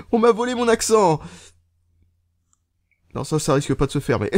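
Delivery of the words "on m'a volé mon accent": mock indignation. Mock outcry at stolen accent.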